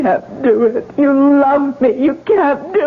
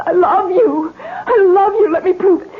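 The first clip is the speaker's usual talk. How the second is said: tearful plea; 5 semitones higher than usual. Acted. Ruth pleading for her life.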